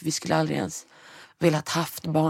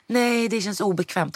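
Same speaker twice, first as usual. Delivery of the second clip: higher, slow uneasy protest; awkward refusal; 6 semitones higher than usual. Retold or imitated. Patient refusing the midwife's company, higher and slow. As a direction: push back politely but uncomfortable. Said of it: "Jag bara".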